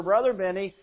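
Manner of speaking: slow, earnest thanks at the door; grateful churchgoer. Retold or imitated. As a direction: savor each word of thanks. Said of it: "say the same words over and over".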